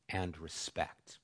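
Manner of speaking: slow unvoiced whisper. Shown as a demonstration. Preacher whispering the verse ending to the congregation. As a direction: breathe it out gently. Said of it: "with gentleness".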